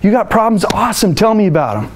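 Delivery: bright, eager and excited, pitch lifted; gushing customer-service enthusiasm; high energy greeting. Shown as a demonstration. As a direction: sound thrilled to hear about their problems. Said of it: "high energy, they're excited".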